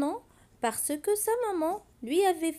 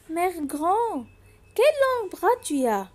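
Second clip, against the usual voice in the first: put-on curious little girl; 3 semitones higher, 4 dB louder than usual. Girl questions disguised wolf.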